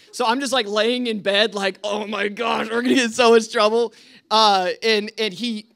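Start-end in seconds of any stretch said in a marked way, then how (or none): 1.8-3.9 quick, building worried blurt; retold mild panic. Boy in bed during the fight, retold mild panic. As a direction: speed up and rise into mock panic. Lying in bed dreading trouble.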